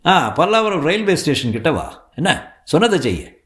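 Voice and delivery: pressing phone voice of a father; urgent father. Acted. Father gives instructions on phone.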